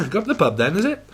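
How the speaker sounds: quick laughing repeat; laughing through it. Retold or imitated. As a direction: giggle the line out fast.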